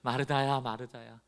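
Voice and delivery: calm her down gently; soothing. Shown as a demonstration. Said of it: "진정시키는 거예요". (진정시키듯 부드럽게)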